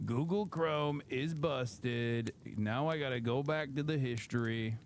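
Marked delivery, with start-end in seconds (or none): 0.1-2.3 a slow, drawn-out mock groan of defeat; slow lament. Shown as a demonstration. Streamer moans to chat about his broken browser, slow and drawn out. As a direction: drag each word out slowly, mock despair. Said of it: "the Google Chrome is busted".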